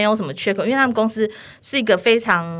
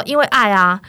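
因为爱啊 said louder, firm and declared; loud declaration; 3 semitones higher, 5 dB louder than usual. Retold or imitated. Saleswoman repeating 因为爱啊 loudly to the client. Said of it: "而且我很大声".

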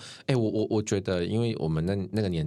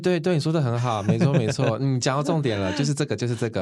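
excited; 7 semitones higher, 5 dB louder than usual. Real, not acted. Enthusiastic agreement with host.

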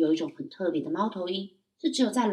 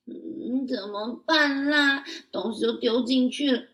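whiny; 5 semitones higher, 4 dB louder, slower than usual. Acted. Child frets at unfilled lake.

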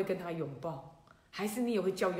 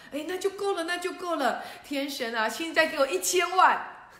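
high, eager greedy demand; greedy glee; 7 semitones higher, 6 dB louder than usual. Acted. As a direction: gleefully ask for ten million. Greedy chicken demands millions.

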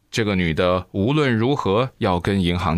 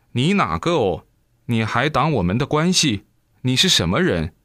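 raised, indignant questions; fussing protest; 4 semitones higher than usual. Acted. Revived daughter protests to her father, indignant and higher. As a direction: demand who the stranger is, higher and sharp. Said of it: "闹哦".

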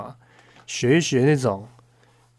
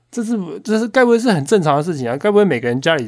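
disbelief; 6 semitones higher, 5 dB louder than usual. Real, not acted. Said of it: "incredulous rhetorical question".

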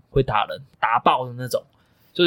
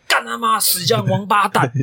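slow, higher mock curse through tears; retold cursing; 6 semitones higher, slower than usual. Crying on the phone to dad at the bus stop, mock curse. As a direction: replay the swearing at the coach, half-acted. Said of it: "我那时候直接我骂脏话".

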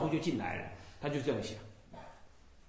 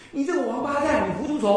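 higher, sharp scolding of a foolish caller; retold scolding; 7 semitones higher, 4 dB louder than usual. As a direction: scold him like a stern master. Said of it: "我这样骂他". (法师在电话里骂信徒糊涂，重演时带怒气)

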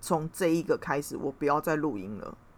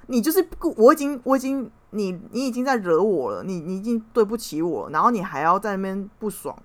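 indignant rant; 2 semitones higher, 3 dB louder than usual. Retold or imitated. Retold angry argument.

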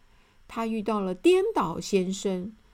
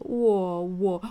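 stumbling, halting words; a flustered man caught without an answer; stammering. Acted. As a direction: trip over the first word nervously. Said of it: "结结巴巴地说".

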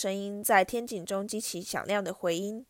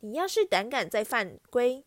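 mock mother voice; 3 semitones higher than usual. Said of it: "他尖起嗓子，怪腔怪调地吼道".

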